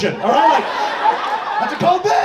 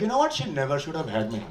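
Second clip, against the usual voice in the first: much lower and softer, satisfied and dreamy; blissed-out calm; 6 semitones lower, 9 dB quieter, faster than usual. Retold or imitated. Daughter after eating mom's curry, softly content. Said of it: "be like".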